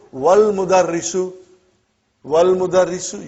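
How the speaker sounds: "wal mudarrisu" with w joined straight to al; hamza dropped. Shown as a demonstration. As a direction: run "wal" together with no glottal onset, then "mudarrisu". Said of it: "you did not pronounce hamza".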